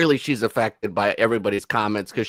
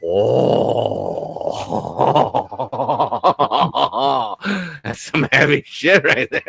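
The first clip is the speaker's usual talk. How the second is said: mock impressed onlooker; 2 semitones higher, slower than usual. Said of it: "some Mexican people be like".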